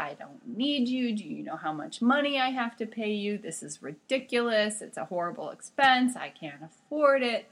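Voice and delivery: retold angry rant. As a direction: mimic a doctor ranting. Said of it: "started screaming at me".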